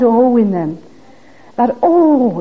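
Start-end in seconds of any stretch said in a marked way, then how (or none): 0.0-0.4 long, heartfelt "oh"; groaning "oh". Shown as a demonstration. Preacher showing the "oh" of deepest prayers, groaning. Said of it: "that groaning for God". 1.8-2.4 drawn-out, yearning "oh"; groaning "oh". Shown as a demonstration. Preacher showing congregation that "oh" in prayer, groaning. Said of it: "that groaning for God".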